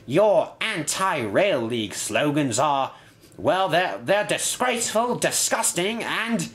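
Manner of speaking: high, indignant tirade; angry shouting. A narrator's reading. Inspector rants at bus and engines, shouting. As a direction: rant in high-pitched disgust, groping for insults. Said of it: "he shouted".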